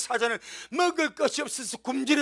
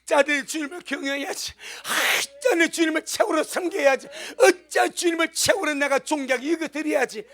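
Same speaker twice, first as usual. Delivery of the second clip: fervent exhortation; 5 semitones higher, 4 dB louder than usual. Acted. Exhorts himself to revere God.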